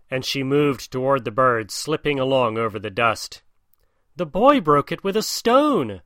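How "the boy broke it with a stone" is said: crying out. Acted. Bird's wife keeps faking the broken wing, higher cry. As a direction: cry it up high, acting hurt. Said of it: "cried Darzee's wife".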